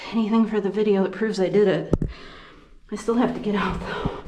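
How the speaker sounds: heavy breaths through the words; winded and puffing; breathing heavily. Real, not acted. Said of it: "stop breathing so heavy".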